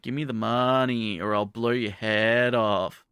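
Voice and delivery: slow, lightly menacing stick-up line; a hint of a gangster threat; mock robber threat.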